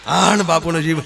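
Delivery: usual speaking voice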